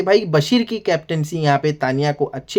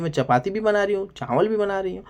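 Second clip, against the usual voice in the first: mock tearful complaint; 4 semitones higher than usual. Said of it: "यहाँ पे नेहल रोती है भाई".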